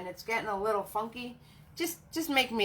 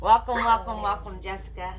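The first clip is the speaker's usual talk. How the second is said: excited welcome; 5 dB louder than usual. Real, not acted. Welcoming viewer loudly.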